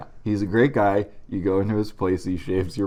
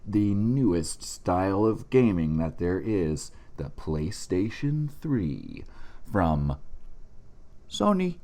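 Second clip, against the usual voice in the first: mock ad read. Fake sponsor ad read.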